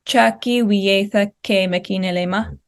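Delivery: "Chaki wietha ke mekinelema" rising on the second syllable, then falling; normal Shawnee intonation. Shown as a demonstration. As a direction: say "Chaki wietha ke mekinelema" with a slight rise at the end. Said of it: "an example of that normal, um, intonation".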